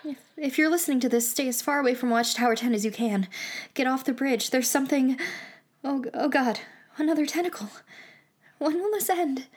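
hammed-up urgent alarm, quick; mock panic. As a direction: play the doomed broadcaster. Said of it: "just having some fun".

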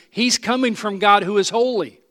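firm emphasis on "coming from God who is holy"; emphatic statement. Shown as a demonstration. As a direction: drive home "He's coming from God". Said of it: "watch the emphasis".

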